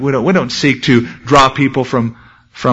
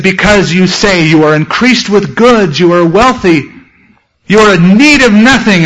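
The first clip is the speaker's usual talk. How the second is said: rising, louder self-satisfied claims; mock proud church; 4 semitones higher, 3 dB louder than usual. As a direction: swell with pride. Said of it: "Jesus had a letter, he said".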